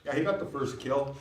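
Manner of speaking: high, quick casual telling; just stating. Shown as a demonstration. Teacher voicing a casual hunter, matter-of-fact. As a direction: chat it off matter-of-factly. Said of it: "Where if it was like".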